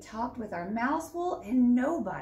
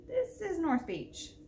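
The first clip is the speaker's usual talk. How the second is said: put-on child voice; 7 semitones higher, slower than usual. Boy answers pirate.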